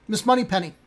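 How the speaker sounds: lightly attempted Scottish film-star voice; Sean Connery. Host testing his Scottish accent, a light celebrity impression. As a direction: try a hint of a Scottish spy. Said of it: "It's, uh, Sean Connery".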